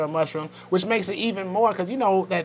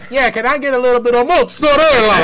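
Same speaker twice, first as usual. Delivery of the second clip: hammed-up Italian accent, louder and laughing; mock Italian accent; 7 semitones higher, 9 dB louder than usual. Mocking a friend's Italian accent ordering mozzarella. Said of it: "like an Italian when they go".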